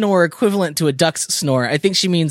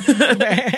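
sheep bleat; 5 semitones higher than usual. Retold or imitated. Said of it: "it sounded like".

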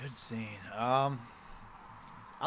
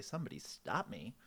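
low Mask quote; 5 semitones lower, 13 dB quieter than usual. Retold or imitated. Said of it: "I was like".

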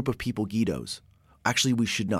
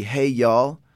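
louder, higher Oklahoma-style cheer; cheering y'all; 4 semitones higher, 6 dB louder than usual. Retold or imitated. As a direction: hype up the kids the way he was raised to. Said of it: "The way I would really like to do it".

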